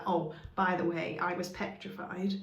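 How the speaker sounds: mild mock offhand remark; casual aside. Shown as a demonstration. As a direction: toss it away as a side note. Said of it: "being like".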